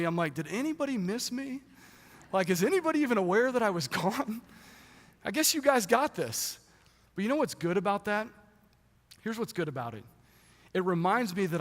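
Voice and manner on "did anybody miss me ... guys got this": mock-dejected higher voice, wondering if anyone noticed; disheartened. Pastor back from vacation, wondering aloud if he was missed, mock-dejected. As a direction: play it as a half-joking sulk after coming home. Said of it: "and almost disheartenedly".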